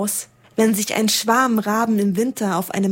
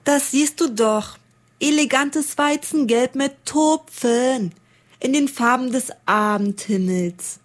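higher, smug know-it-all raven; spotted raven lecturing the snowman, higher and smug; proud raven; 4 semitones higher than usual. Acted. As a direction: answer as if it were obvious. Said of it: "Er richtete seine Frage an einen blau getupften".

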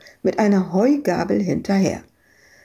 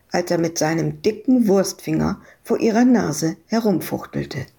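usual speaking voice

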